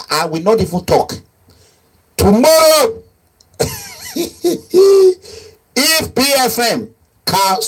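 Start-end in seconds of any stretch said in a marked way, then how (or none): 2.2-7.6 laughing. Real, not acted. Laughing mid taunt about leaving.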